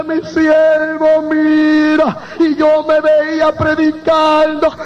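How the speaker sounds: sustained, slow preaching chant on a held note; full-force testimony preaching. Real, not acted. Preacher testifying to the congregation about his calling, fervent intoned cry. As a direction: draw each phrase out slowly, fervently, like a revival preacher.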